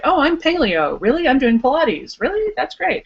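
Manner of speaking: chirpy small talk. Pretend. Imagined water cooler small talk.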